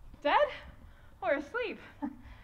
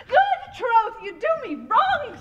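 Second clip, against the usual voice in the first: laughing protest; 5 dB louder than usual. Acted.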